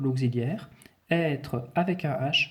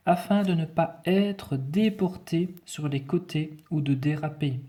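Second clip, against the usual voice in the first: higher-pitched, deliberate dictation voice; dictation reading; 4 semitones higher than usual. Shown as a demonstration. Teacher reading the text to pupils, careful dictation voice. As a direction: read out the sentence with careful articulation.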